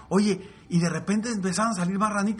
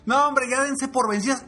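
high mocking shouted jeers; jeering animals; 6 semitones higher than usual. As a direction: taunt the frogs from the crowd. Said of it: "les empezaron a gritar". (abucheo burlón y agudo)

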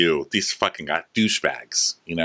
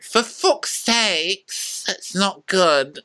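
high, drawn-out exclamation; slow, pitched-up hammed-up dismay; mock exasperation; 11 semitones higher, much slower than usual. Chef reacts as crew crack up, high mock exasperation.

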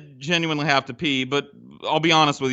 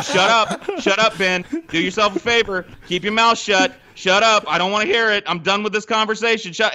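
retold anger; 5 semitones higher than usual. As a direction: repeatedly snap at a friend, half laughing. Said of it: "I'm just like".

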